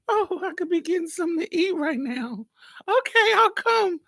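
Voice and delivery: mock pleading cat, high. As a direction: beg at the door like a sulky cat. Cat voiced begging at door.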